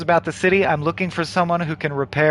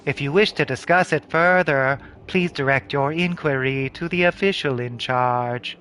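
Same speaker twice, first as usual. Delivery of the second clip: lower, measured guard voice; a hint of a polite, immovable official; lightly acted formal guard; lightly voiced officious soldier; 3 semitones lower than usual.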